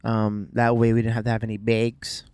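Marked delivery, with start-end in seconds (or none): 1.6-2.2 "bags" with a raised Canadian vowel, like "begs"; Canadian accent. Acted. Joking with wife about shopping bags, Canadian accent. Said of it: "That's how Canadian people say bags".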